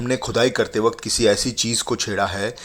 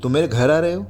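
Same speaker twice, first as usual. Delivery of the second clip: higher, anxious and rushed questions; worried young woman; 6 semitones higher than usual. Acted. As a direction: voice her rising alarm. Falak alarmed by Kabir's call.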